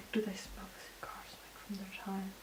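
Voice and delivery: soft, hushed musing whisper, very quiet. Trying to recall an old movie plot aloud, whispering.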